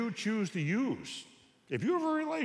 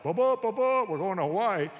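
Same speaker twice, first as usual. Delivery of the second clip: put-on higher, louder thrilled kid; excited teen announcement; 5 semitones higher, 7 dB louder than usual. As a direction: burst in with big news. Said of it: "comes home and announces".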